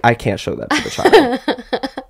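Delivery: high, slow, panicked aside; horrified, drawn out; alarmed whisper-shout. Retold or imitated. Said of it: "I'm like".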